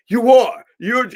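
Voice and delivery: loud, high-pitched agreement; acted-out exclamation. Stallone exclaiming in reply.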